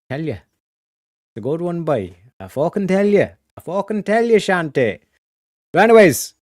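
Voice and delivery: Irish accent. Shown as a demonstration. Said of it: "that wee little Irish accent".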